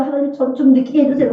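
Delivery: a touch of tearful begging; pleading prayer. Shown as a demonstration. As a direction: plead as if weeping. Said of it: "막 울고 불고 하세요".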